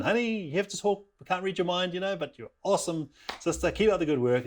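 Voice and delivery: high, sing-song praise; acted sweet parental pep talk; encouraging parent. Parent praising daughter in appraisal.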